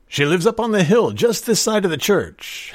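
cheerful. A narrator's reading. Realtor giving a stranger directions, cheerfully. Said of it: "Silva said cheerfully".

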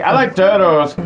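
imitating the I like turtles kid; a light goofy kid voice. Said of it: "that clip of that kid".

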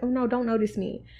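a meek little plea to be overlooked; cowering mousy voice. Retold or imitated. Mocking the person who cowers, in a shrinking mock-timid voice. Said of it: "the person who cowers".

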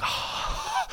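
soft voiceless breath of shock; breathy mock-stunned exhale. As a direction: let out a long airy breath. Reacts to drink knocked away.

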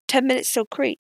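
high squawky parrot call; parrot announcement. Acted. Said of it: "announced Tom's parrot".

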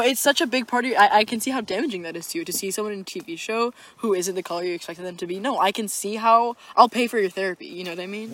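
mock concern, emphatic at the start; insincere, patronizing sympathy; sarcastic sympathy. Real, not acted. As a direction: pile on the fake understanding. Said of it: "All sarcasm".

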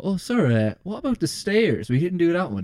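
lightly voiced eager pupil; mock polite student. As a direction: ask sir innocently. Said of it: "and I go".

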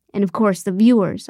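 dry and sarcastic; sarcastic, stressing viewers. Acted. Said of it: "I added sarcastically".

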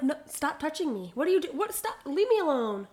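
mock-indignant "get off me" delivery; retold flustered protest. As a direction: re-enact fending someone off in bursts. Retold fending off the boss.

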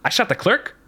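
incredulous sarcastic question, rising high. Retold or imitated. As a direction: scoff at the idea as if it's absurd. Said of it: "like, sarcastically".

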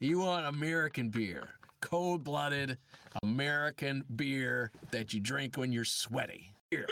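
lightly voiced American beer-commercial read. Shown as a demonstration. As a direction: sell it like an American beer advert. Acts American beer commercial against British.

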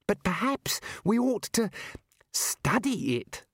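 breathy, unvoiced hiss of a plea; urgent whisper. A narrator's reading. Ponder pleads with Ridcully, whispering urgently. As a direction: whisper it so the monster won't hear. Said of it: "Ponder whispering urgently".

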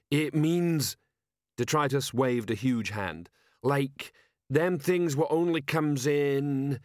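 slow-witted troll sergeant. Acted. Troll sergeant asking his commander, dim troll voice.

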